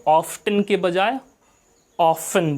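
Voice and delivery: first often with the t sounded, then often with a silent t; British often. Shown as a demonstration. Teacher contrasting American and British often. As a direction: contrast often with a t against often without it. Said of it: "इसको हमें often ही बोलना है".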